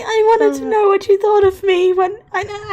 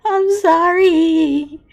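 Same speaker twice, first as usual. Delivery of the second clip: crying sorry; much slower than usual. Acted. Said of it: "She begins to cry".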